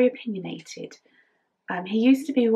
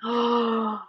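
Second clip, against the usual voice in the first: delighted gasp; 3 semitones higher than usual. Real, not acted. Admiring her knitting pattern.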